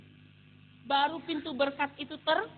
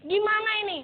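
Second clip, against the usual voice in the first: raised, pleading question; exasperated cry; 5 semitones higher, 4 dB louder, faster than usual. Retold or imitated. Struggling worker asking God what to do, exasperated. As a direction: reenact a frustrated appeal to God.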